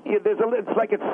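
slushy lisp out the side of the mouth; lateral lisp. Shown as a demonstration. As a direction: demo a lateral lisp, spitting sideways. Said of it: "it sounds like this".

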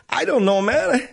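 breaking into real laughter mid-line; laughing. Real, not acted. Radio host cracks up at his own bit, laughing. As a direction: laugh through the words, cracking up.

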